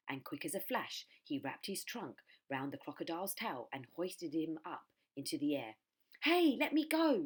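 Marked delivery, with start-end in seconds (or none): 6.2-7.2 high, loud protesting yell; yelling crocodile. A narrator's reading. Crocodile dangling from Trunky's trunk, loud high yell. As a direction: yell while dangling upside down. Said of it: "yelled the enormous crocodile".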